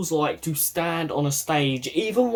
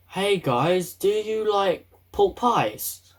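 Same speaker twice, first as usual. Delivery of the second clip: mock silly voice; 3 semitones higher, slower than usual. Shown as a demonstration. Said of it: "I just started singing".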